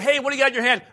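high, brisk mock God; tossed off lightly as a joke; playful retelling. Preacher mocking the version he rejects, high and breezy. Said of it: "It wasn't like when God said".

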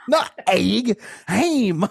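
high comic imitation with stretched vowels; mimicked performer. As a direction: exaggerate each short word up high. Continuing the imitation with exaggerated vowels.

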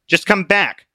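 a hint of a pushy friend; Obstinate, coaxing. Obstinate pressing Christian to return. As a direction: urge him home.

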